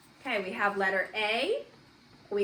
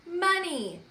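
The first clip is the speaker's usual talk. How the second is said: put-on Money called out higher and louder, as a child's eager mistake; wrong guess; 6 semitones higher, 5 dB louder than usual. Shown as a demonstration. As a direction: play the kid who blurts out the wrong word. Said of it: "look at this and say".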